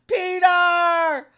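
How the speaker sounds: high, loud mock scream of a name. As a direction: shriek for Peter in alarm. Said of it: "comes out screaming".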